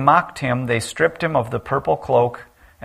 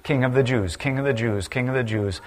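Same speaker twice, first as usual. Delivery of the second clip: each repeat of King of the Jews softer than the last; fading repetition; 5 dB quieter than usual. Shown as a demonstration. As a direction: let the phrase sink quieter every time. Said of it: "this phrase keeps showing up over and over again".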